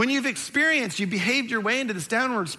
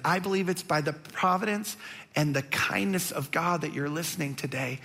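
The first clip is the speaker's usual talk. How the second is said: tender appeal; 3 semitones lower than usual. Real, not acted. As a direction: speak gently to one hurting person. Pastor speaks tenderly to viewer.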